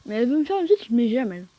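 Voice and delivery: lisping around a lollipop; sucking a lollipop. Real, not acted. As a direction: talk with a lollipop in your mouth. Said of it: "Désolé si je zozote, mais j'ai une sucette dans la bouche".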